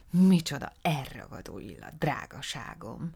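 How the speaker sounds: exclaiming. Acted. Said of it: "kiáltott fel".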